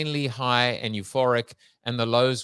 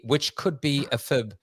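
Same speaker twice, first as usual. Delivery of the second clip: laughing; 7 dB louder than usual. Real, not acted. Laughing aside.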